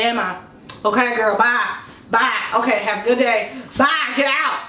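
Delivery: half asleep. Retold or imitated. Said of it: "And I'm, like, half asleep".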